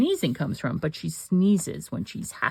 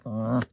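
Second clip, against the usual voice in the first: growl sound imitation; 5 semitones lower than usual. Shown as a demonstration. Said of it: "Your dog growls, it's like".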